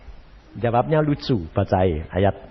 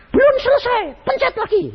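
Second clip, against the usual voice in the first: high, taunting devil; preacher voicing Satan, much higher; Satan's voice. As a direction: tease like the devil. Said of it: "Setan bilang".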